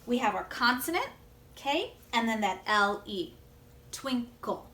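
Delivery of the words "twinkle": "twinkle" as two beats, twin and kle; broken into syllables. Shown as a demonstration. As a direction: pause inside "twinkle" before the kle. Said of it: "That's why the word breaks like that".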